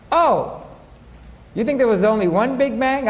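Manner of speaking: a teasing gasp of disbelief at his friends; mock surprise. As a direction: feign amazement they stop at one. Acted reply to skeptical friends.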